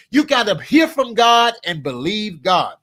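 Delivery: shouted preaching climax; fervent shout. Real, not acted. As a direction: belt it out to the crowd. Preaching point to audience.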